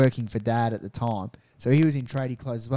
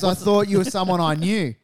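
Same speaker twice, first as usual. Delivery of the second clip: put-on slightly raised, awkward kid's voice; mocking awkward-kid impression; 5 semitones higher, 4 dB louder than usual. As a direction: lightly imitate a socially awkward kid. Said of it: "he went full autistic".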